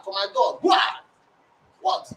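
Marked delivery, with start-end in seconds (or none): 0.6-0.8 imitated bang. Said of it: "Do you know what I hear?".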